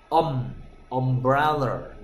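"um" with the open 어 vowel, then umbrella; "um" as 어 sound. Shown as a demonstration. Teacher showing students the first vowel, "um" said as 어. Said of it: "어 소리입니다".

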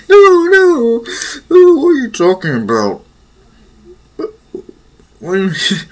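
high, squeaky embarrassed protest; flustered denial. Acted. Araka flustered as Izuku catches her, high embarrassed protest. Flustered girl denying she paid.

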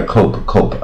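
COPE with a long o, read by its spelling; spelling pronunciation. Shown as a demonstration. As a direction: say "cope" as the letters suggest. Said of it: "有边念边嘛".

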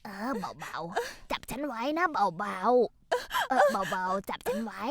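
very slow, drawn-out coaxing; gentle slow guidance; slow and careful. Acted. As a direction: ease her up one word at a time. Helping her stand slowly.

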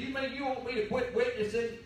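lightly voiced wife, asking in mild disbelief; a touch of a wife's puzzled surprise; surprised question. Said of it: "she said".

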